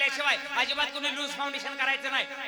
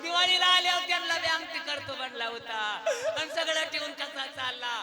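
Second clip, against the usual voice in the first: sobbing daughter; 2 semitones higher than usual. Retold or imitated. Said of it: "पोरगी वारा घाल म्हणते".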